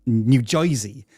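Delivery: New Yorker accent. Shown as a demonstration. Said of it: "I cannot say New Jersey without putting it in a New Yorker accent".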